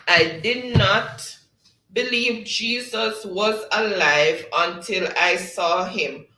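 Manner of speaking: quiz clue reading. Acted. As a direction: read the clue out slowly, building to a loud question. Reads out a quiz riddle.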